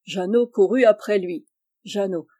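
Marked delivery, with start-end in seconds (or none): none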